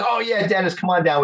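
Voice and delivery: hint of a friendly Jim on the phone; imitating Jim.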